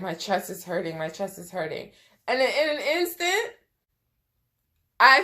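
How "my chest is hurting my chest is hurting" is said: weak complaint. Retold or imitated. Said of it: "I'm like".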